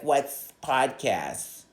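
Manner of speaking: slow, dopey question; mock clueless question. Girl on the phone, mock clueless and slow. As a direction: drag it out like she's clueless. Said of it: "she didn't say what's podcasts".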